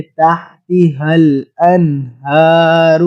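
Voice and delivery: تحتها الانہار with a heavy, full ہ, slow; heavy sound. Shown as a demonstration. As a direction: darken the ہ in تحتها. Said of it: "بھاری آواز میں پڑھیں گے".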